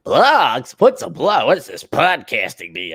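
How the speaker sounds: lightly voiced clueless old-timer; mock bafflement at newfangled things; baffled old boomer. A radio old-timer confused by podcasting, mock bafflement. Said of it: "they're boomers".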